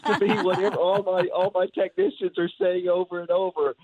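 muffled through a respirator mask; talking behind a respirator. Real, not acted. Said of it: "you can't see me smiling through my respirator".

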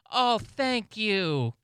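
sugary mock thanks. Buddy mock-thanking the man.

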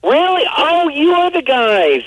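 sudden high delighted surprise; realizing who they are, thrilled; surprised. Real, not acted. Learns they were on same show.

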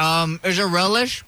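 slow, through a full mouth. Real, not acted. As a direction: speak around the food in your cheek. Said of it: "I feel like a chipmunk".

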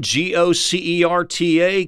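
slow spelled letters; spelled out slowly. Shown as a demonstration. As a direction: read each letter slowly, clearly. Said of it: "certa with a C".

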